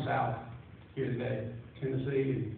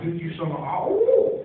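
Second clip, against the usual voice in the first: triumphant whoop; 3 semitones higher, 6 dB louder, slower than usual. Retold or imitated. Imitating triumphant hunter after kill.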